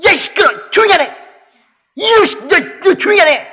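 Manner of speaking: high, sputtering angry yell; acted outburst of sharp rebuke; angry scolding. Shown as a demonstration. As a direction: shout someone down furiously. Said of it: "실질적으로 이렇게 한 거예요".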